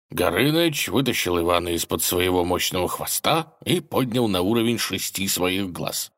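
usual speaking voice

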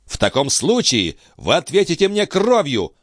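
high outcry demanding blood; furious challenge. A narrator's reading. Philippe challenging Balsamo to a duel, high furious cry. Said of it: "воскликнул Филипп".

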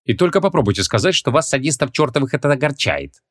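lightly voiced indignant heroine; Ванесса, warning. Heroine warns the two sadists.

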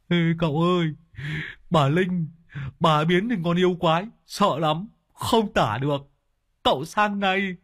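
a scared henchman blurting out news; frightened servant voice. Acted. Lâm Sẹo reports in fear.

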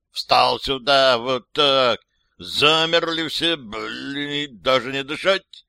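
barking drill instructor orders; shouting drill sergeant. Acted. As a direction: yell at the recruits like a sergeant. Drill sergeant yelling at recruits.

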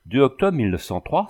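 mild disbelief at the date; stunned exclamation. Acted. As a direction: read the date as if it can't be true. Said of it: "s'exclama-t-elle stupéfaite".

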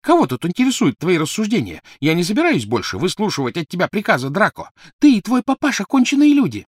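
high, loud furious rant; open fury. Acted. Crabbe rages at Draco, high and loud, building to a shout. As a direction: tear into him with rage. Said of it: "с откровенной яростью".

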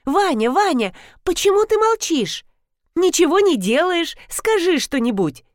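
pitched high, pressing him to speak; high insistent plea. A narrator's reading. Rina pressing silent Vanya to speak, high insistent voice. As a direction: demand an answer, rising in pitch. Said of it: "закричала Рина".

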